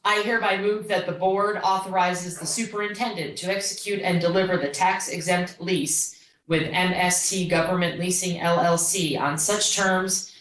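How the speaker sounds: measured word-for-word reading aloud; formal motion reading. Real, not acted. Board member reads the motion verbatim to the board, formal reading. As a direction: read the motion carefully into the record.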